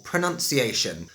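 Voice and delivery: "pronunciation" slowly, every syllable sounded; measured, proper RP "pronunciation"; received pronunciation. Shown as a demonstration. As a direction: enunciate "pronunciation" in careful RP. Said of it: "So that's received pronunciation".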